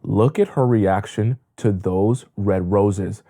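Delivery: a hint of a man basking in praise; impressed boyfriend. Boyfriend seeing her reaction to roses, slow and awed. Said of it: "He'll feel like".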